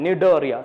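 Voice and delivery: നിഡേറിയ said with no C sound at the start; teacher's model of നിഡേറിയ, C left silent. Shown as a demonstration. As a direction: begin നിഡേറിയ straight on the N. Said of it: "സി അവിടെ silent ആണ്".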